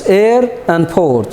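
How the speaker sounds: "air" and "port" said slowly, apart; two words separated. Shown as a demonstration. Teacher splits a compound word for learners, "air" and "port" slowly separated. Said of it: "a combination of two words".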